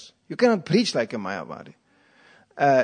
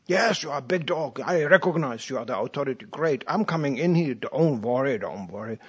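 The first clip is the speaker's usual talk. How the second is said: soothing talk to dog. Retold or imitated. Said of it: "The normal cases you can talk to".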